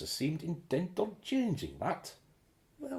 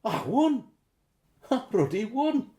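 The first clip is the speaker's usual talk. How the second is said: yelling with joy, much louder; ecstatic shout; 7 semitones higher, 9 dB louder than usual. Acted. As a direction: shout the win to the rooftops. Screams after lottery win.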